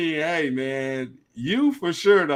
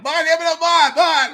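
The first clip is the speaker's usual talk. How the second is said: put-on high, loud Southern country accent; 8 dB louder than usual. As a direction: call it out in a thick country accent. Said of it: "thick country accent that they had".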